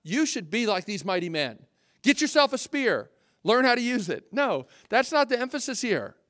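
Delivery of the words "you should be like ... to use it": lightly voiced rallying preacher; mock preachy exhortation. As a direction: tease the misreading with a gung-ho push. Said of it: "The emphasis of this text is not".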